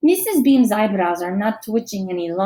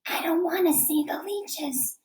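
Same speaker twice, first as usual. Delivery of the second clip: higher, softer whispered fear; whispering; 7 semitones higher, 7 dB quieter than usual. A narrator's reading. Frightened girl whispers to the teacher. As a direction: whisper it, scared. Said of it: "she whispers".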